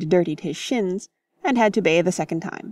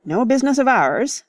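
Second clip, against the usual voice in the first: dismissive; 5 semitones higher, 4 dB louder than usual. Acted. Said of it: "said Cecil".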